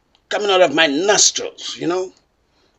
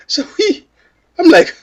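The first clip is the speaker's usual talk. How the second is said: laughing; 9 semitones higher, 4 dB louder than usual. Real, not acted. Laughing at his own story.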